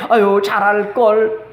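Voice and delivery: slow sighing regret, mildly mournful; regretful sigh. Retold or imitated. Preacher voicing a child's regret after parents die, slow sigh. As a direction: let out a slow, mild 아유 of regret.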